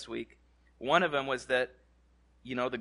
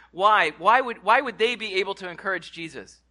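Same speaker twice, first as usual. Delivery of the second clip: preaching emphasis; 3 semitones higher, 7 dB louder than usual. Real, not acted. Preaching question to congregation.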